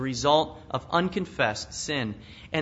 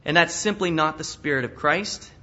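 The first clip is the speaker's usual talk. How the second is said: ordinary delivery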